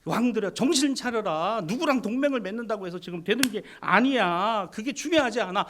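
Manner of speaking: booming prophetic summons; prophet crying out. Acted. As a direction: cry out to the kings like a prophet. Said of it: "그는 왕실에서 외쳤습니다".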